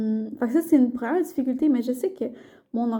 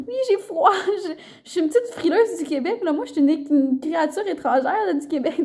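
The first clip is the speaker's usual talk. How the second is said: higher, laughing self-mockery; joking reply; 4 semitones higher than usual. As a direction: laugh it off as a shivering little Quebecer. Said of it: "Puis je suis comme".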